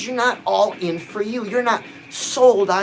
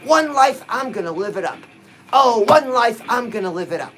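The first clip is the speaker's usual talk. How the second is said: rallying affirmation; 3 dB louder than usual. Shown as a demonstration. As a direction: lead listeners in a motivational slogan. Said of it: "Say it with me".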